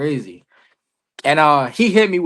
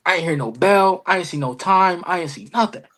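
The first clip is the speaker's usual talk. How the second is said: retold heated complaint, pitched up; 5 semitones higher than usual. Wrestler explaining his bad match to Roosevelt, mildly heated. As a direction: list the grievances in a higher voice. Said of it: "I'm heated".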